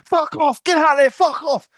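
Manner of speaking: high, loud angry bellow; sudden shout. Retold or imitated. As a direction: snap from calm into a yell. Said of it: "Just shout".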